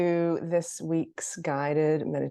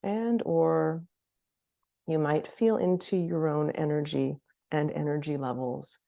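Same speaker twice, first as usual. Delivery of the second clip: guided meditation. Acted. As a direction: gently lead them into noticing, leaving space between phrases.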